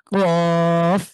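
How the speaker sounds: কফ pushed from the back of the tongue; কফ with a hard push at the tongue root; throat push. Shown as a demonstration. Teacher demonstrates কফ to students, pushed hard. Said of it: "ধাক্কা দিয়ে জিভের গোড়া".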